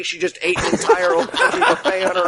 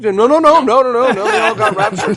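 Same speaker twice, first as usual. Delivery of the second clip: panicked denial. Retold or imitated. Acted denial about missing kids.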